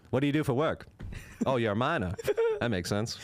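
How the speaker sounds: put-on old-time director. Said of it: "This accent".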